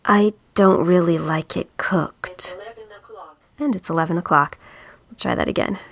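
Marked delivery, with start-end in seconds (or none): 0.1-2.6 flat monotone read. Acted. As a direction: deliver it flat and lifeless. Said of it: "So much for monotone".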